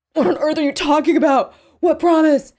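high, loud, frantic questioning; panicked demand. Acted. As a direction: shout the questions in alarm. Panicked captive questions her.

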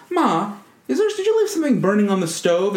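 quoting Dorothy. Retold or imitated. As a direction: fake alarm to trick her mother. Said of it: "and says".

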